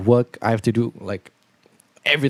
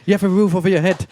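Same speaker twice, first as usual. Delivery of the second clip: Andrew Tate manner; 8 semitones higher than usual. Pretend. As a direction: bark it out like a scornful alpha influencer. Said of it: "let's do it in the Andrew Tate manner".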